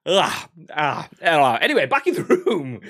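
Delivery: loud, high, catching breath; coming down from laughter; laughing. Real, not acted. Recovering from laughter.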